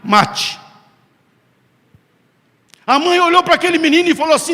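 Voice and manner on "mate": loud cry of "Deus, não me mate"; urgent plea. Shown as a demonstration. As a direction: push it out loud, begging. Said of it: "você está dizendo".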